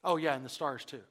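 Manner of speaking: mildly offhand aside; light throwaway remark, as if just remembered; afterthought. Acted. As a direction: tack it on casually. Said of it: "an afterthought".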